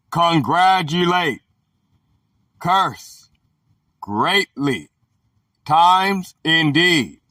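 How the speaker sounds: slow, deliberate reading with pauses between items; dictionary entry reading. Real, not acted. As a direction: read it out measuredly, term by term. Reads dictionary entry aloud.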